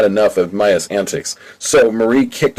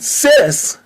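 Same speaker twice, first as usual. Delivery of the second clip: much higher, delighted shout of a name; joyful cry. Acted. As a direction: cry out, thrilled to see her. Annie sees her twin arrive.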